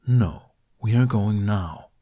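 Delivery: slow, flat, no room for argument; flat statement. A narrator's reading. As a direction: state it like it's settled. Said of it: "Toothless flatly stated".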